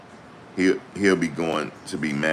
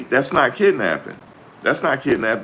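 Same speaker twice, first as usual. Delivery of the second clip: loud, higher, hammering the word not in That's not kidnapping; emphatic correction; 8 semitones higher, 4 dB louder than usual. Shown as a demonstration. Host shows lawyer what he should have said, loud and insistent. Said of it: "you're supposed to say".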